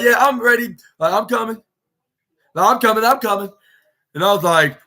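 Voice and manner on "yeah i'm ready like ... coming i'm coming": answering shout. Retold or imitated. The speaker answering Anna Jay's call.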